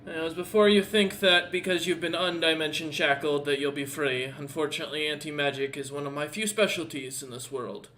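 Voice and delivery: composed warning, easing down after a forceful start; warning captor. Acted. Captor warning prisoner about anti-magic, mildly forceful.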